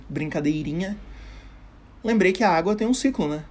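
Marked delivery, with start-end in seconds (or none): 2.0-3.3 excited realisation. Acted. Repeats his realisation.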